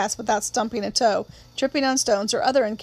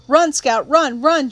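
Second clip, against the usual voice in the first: louder, higher, urgent run command; urgent scream; 3 semitones higher, 6 dB louder, slower than usual. Acted. Brother warning his sister as the attacker charges, scream. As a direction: scream at her to run for her life. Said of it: "Jim screamed".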